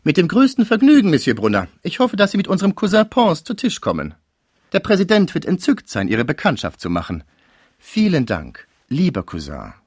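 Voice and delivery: hohe, gesellschaftlich liebenswürdige Damenstimme; laut gesprochene Höflichkeit. A narrator's reading. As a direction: die Gastgeberin hoch und zuvorkommend geben. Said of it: "Laut sagte sie". (Präsidentin lädt Brunner zu Tisch, laut und höflich)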